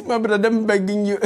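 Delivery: put-on Indian accent. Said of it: "He's begging the police".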